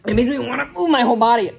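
pained talk with a hot mouth; mouth burning from spicy food. Real, not acted. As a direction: speak through the burn. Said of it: "My mouth is burning".

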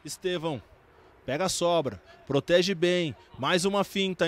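ordinary talk

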